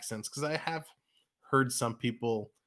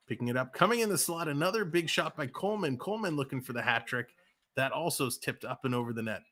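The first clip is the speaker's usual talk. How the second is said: quick, lively live game call; rink-side commentator rolling through the play; hockey play-by-play. Acted. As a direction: call the action as it happens.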